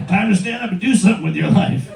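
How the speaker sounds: lightly voiced scolding dad; nagging dad. Smartwatch scolding its lazy owner, hint of asshole dad. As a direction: order them about like a mildly fed-up father. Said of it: "asshole dad, these things".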